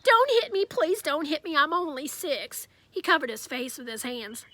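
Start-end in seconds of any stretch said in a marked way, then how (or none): 0.0-2.7 put-on high, pleading kid begging not to be hit; scared six-year-old begging the bully; crying plea. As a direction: beg through tears, slowing at the end. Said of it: "Daniel started to cry".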